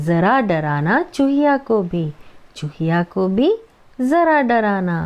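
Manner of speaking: put-on slow, sing-song recital of a children's poem; poem recitation. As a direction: recite each line slowly for the class. Teacher recites Hindi poem.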